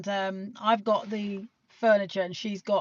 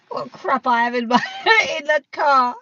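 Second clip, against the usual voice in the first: giggling through the words; laughing while talking; 3 semitones higher, 7 dB louder than usual. Real, not acted. Laughing about the junk in her car. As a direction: laugh it out, embarrassed.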